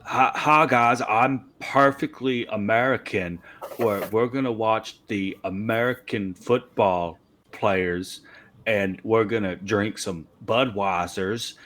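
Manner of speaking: a barely shifted, hammed-up American accent; mock American accent, only lightly put on; fake American accent. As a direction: play a proud cliché American, lightly. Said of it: "our impersonation of Daniel Craig's American accent".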